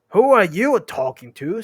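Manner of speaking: high, loud challenge; indignant troll question; affronted troll. Acted. William challenges Bert.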